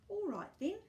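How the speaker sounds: a light touch of Gumboot's eager voice; agreeing. A narrator's reading. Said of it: "he said".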